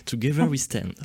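English accent tried with a giggle just before; playful, effortful English accent; attempted English accent. Shown as a demonstration. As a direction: have a careful go at sounding English. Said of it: "j'essaie de le faire avec l'accent anglais".

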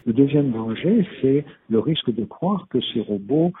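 half robot voice, garbled by the line; tinny, glitchy robotic phone voice. Real, not acted. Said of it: "Serge Tisseron a une voix de robot tout d'un coup".

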